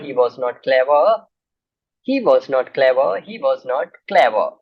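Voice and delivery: he was not clever, word by word, very slow; slow dictation. Shown as a demonstration. Teacher dictating the answer slowly so students can write. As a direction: spell the sentence out slowly for writing. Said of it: "dictating answer to students slowly".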